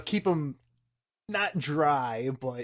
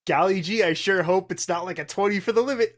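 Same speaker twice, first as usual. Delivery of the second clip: put-on wholesome 1950s kid; 4 semitones higher, 4 dB louder than usual. Gee-whiz in-character hope.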